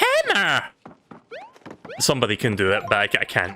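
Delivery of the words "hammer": very high, loud ringing call voice pushed high. Showing how high the hammer voice must go: very high hammer voice. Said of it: "you have to go really high on that voice".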